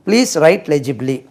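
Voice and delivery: slow, loud, word by word; loud teacher model of the sentence; slow model phrase. Shown as a demonstration. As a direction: say it slowly, drawing each word. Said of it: "அதை please எடுத்துருங்க".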